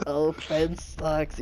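very slow, mock whining; imitating a sulky opponent; mocking sore loser. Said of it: "They're gonna be like".

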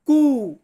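Italian Q, "কু", with a plain k and oo; Italian letter Q. Shown as a demonstration. Teacher modelling Italian Q for beginners, "কু" as koo. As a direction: say "কু" as a long "koo". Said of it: "Italian বর্ণমালাতে উচ্চারণ করব".

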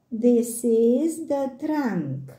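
"This is the trunk" drawn out, slow; slow careful repeat. Shown as a demonstration. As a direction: say "This is the trunk" slowly for a child. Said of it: "slow repeat for children".

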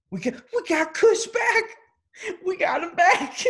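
high, loud laughing whoop; laughing excitement. Real, not acted. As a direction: cry it out through laughter. Laughing joyous exclamation.

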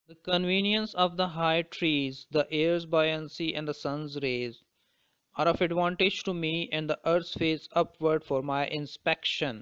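slow, deliberate poetry reading; measured, unhurried reading of verse; poem recitation. Acted. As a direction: recite the verse slowly, phrase by phrase. Reads the poem aloud.

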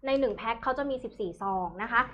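thai live seller. Acted. Host pitches product prices.

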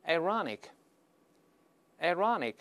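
slow, separated repetitions for learners; read-aloud demo. Shown as a demonstration. Teacher leading learners in reading aloud, slow demonstration. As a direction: model each word slowly, leaving room to repeat. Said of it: "我们大声读一下".

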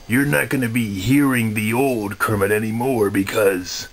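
a lightly put-on Kermit the Frog voice; a mild Kermit impression, close to his own voice; new Kermit voice. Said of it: "this is my new voice".

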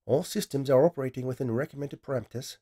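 a light hint of a cool Australian AI; lightly voiced machine, even and composed; AI assistant voice. AI assistant reports system status, lightly voiced and even. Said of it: "in a somewhat sexy female voice with an Australian accent".

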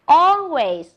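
"Always" with AL hit loud, then falling; stress first syllable. Shown as a demonstration. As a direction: lean hard on AL in "Always". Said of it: "Listen again and repeat". (nhấn mạnh âm đầu "Always", giọng to)

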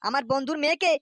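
loud angry rebuke; angry scolding. Acted. Father rebukes his son for the love letters, loud.

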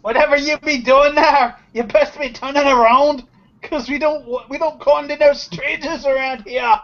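high, loud rustic threat; gruff settler's warning. Acted. Settler father warning a stranger off his land, loud rustic threat. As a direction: bark a hillbilly warning at the intruder.

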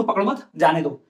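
पकड़ो मत as one phrase, then जाने दो; pause after मत. Shown as a demonstration. Teacher explaining to let him go, pause after मत. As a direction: break between मत and जाने दो. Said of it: "मतलब उसको पकड़ो मत".

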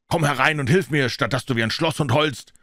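a rough butler scolding his daughter. Acted. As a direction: bark at the crying girl. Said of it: "erwiderte Mister Jennings rauh".

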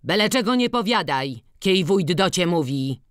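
a village headman barking down from on high; proud official yelling at a peasant; haughty shout. Acted. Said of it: "krzyknął wyniośle".

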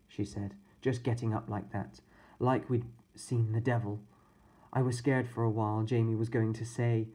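a hint of a remorseful babysitter; sorry and earnest, explaining to the boys; lightly voiced babysitter. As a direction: babysitter admitting they behaved badly.

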